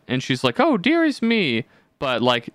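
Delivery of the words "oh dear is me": high, slow, prim imitation; drawn-out, high mock dismay; Sev. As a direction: mimic a friend who never swears, pitched high. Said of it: "Sev doesn't swear".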